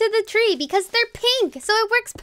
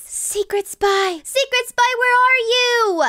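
calling out; 4 semitones higher, slower than usual. Pretend. Calling the spy over.

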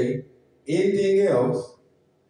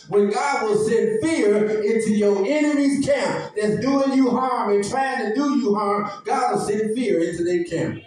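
raised, driving sermon delivery; preaching; 3 semitones higher than usual. Acted. Preacher promising the congregation God will act, preaching.

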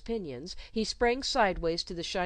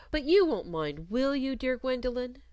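plaintive, rising and louder plea; 7 semitones higher, 5 dB louder than usual. Acted. Governess asking the child not to mind, plaintive. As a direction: wheedle with a plaintive whine.

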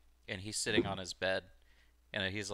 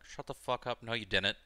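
mock angry callout; 5 semitones higher, 25 dB louder than usual. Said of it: "he'd be like".

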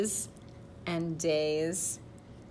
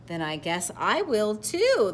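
louder, higher, drawn-out delight; happy; 5 semitones higher, 11 dB louder, slower than usual. A narrator's reading. Pollywog deciding to change too, happy. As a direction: chirp it happily, taking your time. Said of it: "the pollywog said happily".

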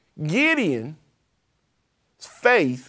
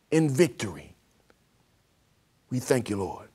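fervent prayer; 4 dB louder than usual. Real, not acted. Leads a prayer for listeners.

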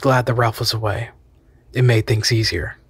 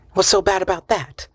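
countering; 8 semitones higher than usual. Acted. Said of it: "she countered".

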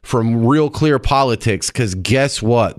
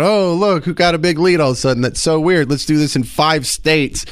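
mock surprise; 3 semitones higher than usual. Host voices vote riggers to guest, feigned surprise. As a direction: play innocent about a suspicious coincidence.

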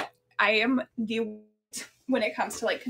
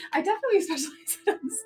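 laughing through the words, quicker; 5 semitones higher, faster than usual. Real, not acted. Repeating a viewer's hug joke to her live audience, laughing. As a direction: giggles while repeating the joke.

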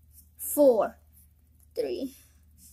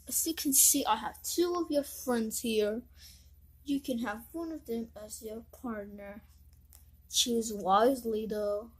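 lower, smooth taunting villain; 4 semitones lower than usual. Acted. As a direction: offer the cruel choice calmly. Villain presents a cruel choice.

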